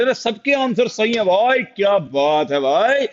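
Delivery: high-pitched, impressed exclamation; delighted praise. Real, not acted. Teacher seeing everyone's answers are correct, delighted praise. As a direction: marvel at the whole class.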